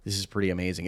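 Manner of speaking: hushed awe. Retold or imitated. Recalling quiet awe.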